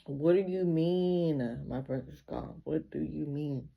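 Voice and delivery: slow, drawn-out mock wail; imitating a distraught plea, lightly wailed; retold crying. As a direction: act out tearful disbelief, stretching the words. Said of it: "So I start crying".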